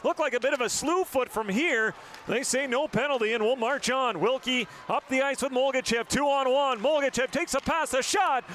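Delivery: calling the two-on-one with rising energy; excited call. Real, not acted. Commentator calling a two on one rush, excited. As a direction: voice climbs as the rush builds.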